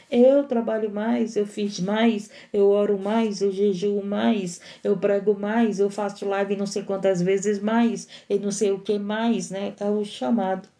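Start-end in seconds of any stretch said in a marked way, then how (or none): 0.1-9.5 complaining believer. Retold or imitated. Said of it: "o chamado é esse que diz".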